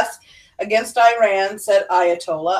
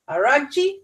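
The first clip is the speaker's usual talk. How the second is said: unsure pronunciation; 4 semitones higher than usual. Real, not acted. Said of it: "if I mispronounced that one".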